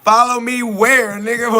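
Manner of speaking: scoffing at being called a cult leader; incredulous retort. Retold or imitated. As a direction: fire back in disbelief. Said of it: "It's like".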